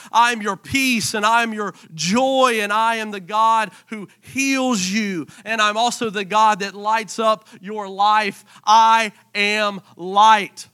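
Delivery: slow, emphatic proclamation; slow, building preacher's proclamation; preaching declaration. Acted. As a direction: proclaim each name of God.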